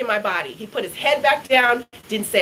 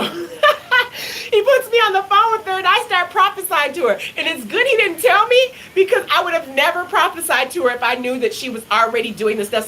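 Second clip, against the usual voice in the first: usual speaking voice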